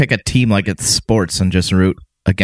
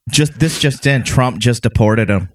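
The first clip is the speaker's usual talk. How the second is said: mock news flash. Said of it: "mock news bulletin".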